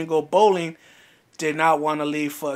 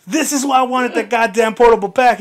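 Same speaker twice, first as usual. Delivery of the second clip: louder, higher retold angry complaint; exasperated outburst; 6 semitones higher, 7 dB louder than usual. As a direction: re-enact blowing up at a friend. Retold row with John over charger.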